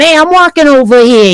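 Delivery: a light imitation of a tough-guy New York accent; masculine New York accent. Showing friends the masculine New York accent, lightly imitated. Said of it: "not gonna hear the woman going".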